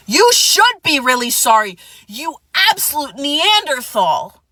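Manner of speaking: slow, scornful put-down; retold telling-off. Scolding the ex who came back, slow and scornful. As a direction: talk down to him like a caveman. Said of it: "And I was like".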